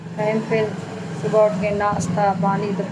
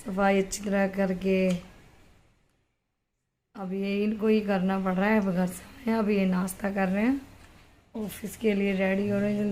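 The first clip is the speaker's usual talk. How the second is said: hushed commentary; 6 dB quieter than usual. Real, not acted. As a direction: narrate quietly as if not to disturb anyone. Quiet commentary over home video.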